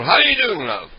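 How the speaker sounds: chummy fake caller hamming up the greeting; prank caller persona. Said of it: "Ed Rosenthal".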